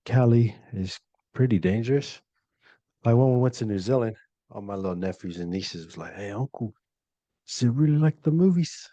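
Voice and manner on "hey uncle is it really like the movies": put-on kid voice. Nephews asking uncle, voiced.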